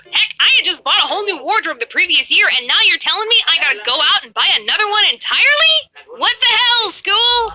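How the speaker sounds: high, rising indignant rant; outraged. Acted. Student told to buy a whole new wardrobe, outraged. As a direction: build from fast protest to a loud, high outburst. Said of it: "Every kid was outraged".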